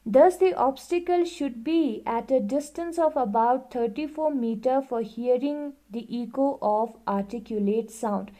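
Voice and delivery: reading the book aloud, very slowly and evenly; slow classroom read-aloud; slow textbook reading. Acted. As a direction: dictate it word by word to the class. Reads textbook line aloud.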